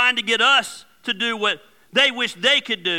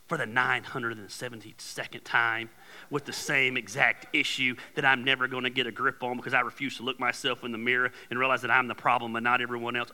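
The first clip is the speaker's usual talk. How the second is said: whiny guilt trip; 8 semitones lower, 8 dB quieter than usual. Acted. Voicing needy guilt-tripper.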